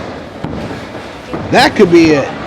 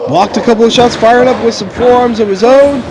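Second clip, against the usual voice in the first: excited commentator; 4 semitones higher than usual. Acted. Rising near-fall excitement in commentary.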